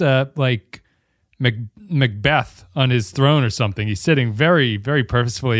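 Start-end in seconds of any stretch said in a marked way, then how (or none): none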